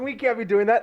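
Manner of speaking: high, loud, panicked cry; mock panicked cry. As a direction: shout out in a panic. Quoting Lucius in alarm.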